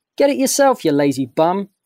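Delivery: impudent, teasing tone. Bruno, hanging from a branch, answers Rocco below, cheeky. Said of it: "Bruno called down to him cheekily".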